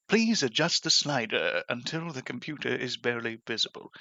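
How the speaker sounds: lightly voiced British announcer; automated British narrator. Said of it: "In order to nail impressions".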